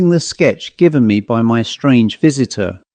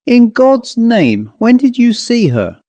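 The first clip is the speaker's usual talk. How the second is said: slow, much higher, desperate father; urgent plea; 10 semitones higher than usual. A narrator's reading. Father demanding when the painter saw her, slow and high.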